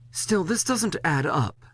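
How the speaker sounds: slow skeptical muse; Leslie, doubtful. A narrator's reading. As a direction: turn it over slowly, unconvinced. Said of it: "Leslie says".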